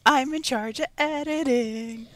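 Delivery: smugly rubbing it in; playful gloating. Real, not acted. Gloats over control of editing.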